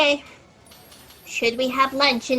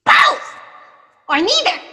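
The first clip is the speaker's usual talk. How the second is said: frantic shout; 7 semitones higher, 4 dB louder than usual. Acted. Frantic answer about her fate.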